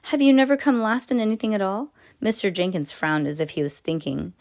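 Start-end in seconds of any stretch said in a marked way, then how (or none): 0.0-1.9 teasing. Acted. Teacher's teasing challenge.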